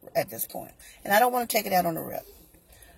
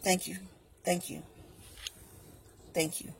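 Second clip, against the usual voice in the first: forced politeness; 10 dB quieter than usual. Retold or imitated. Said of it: "that's not what I wanted to say".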